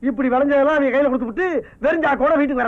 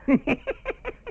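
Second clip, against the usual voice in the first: sheepish laugh; 6 dB quieter than usual. Acted. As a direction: laugh softly to cover a slip. Forced laugh after covering a slip.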